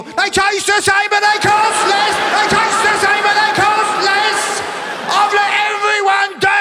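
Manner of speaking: high loud anguished yelling; mock despairing shout. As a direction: overblown breakdown over yogurt. Old man punching door.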